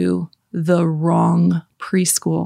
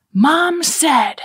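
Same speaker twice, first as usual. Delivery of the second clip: put-on high child voice; 9 semitones higher, 3 dB louder than usual. Son reporting to siblings.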